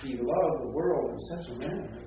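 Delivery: "loved" lifted, then "such a manner" marked; emphasis demonstration. Shown as a demonstration. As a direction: put weight on "such a manner". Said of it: "if the emphasis is upon".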